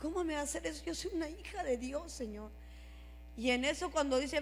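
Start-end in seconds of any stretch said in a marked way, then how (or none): 0.0-2.5 softly retold hurt complaint; dolida. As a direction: quietly question God, a touch wounded. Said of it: "me quedé tan dolida y dije". (queja dolida al Señor, en voz baja)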